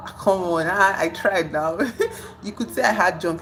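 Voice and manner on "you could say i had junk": giggling through her own punchline; laughing. Real, not acted. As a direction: chuckle while repeating the joke.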